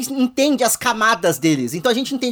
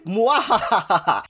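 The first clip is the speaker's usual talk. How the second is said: mustache twirling villain; much slower than usual. Acted. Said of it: "Trazendo o callback".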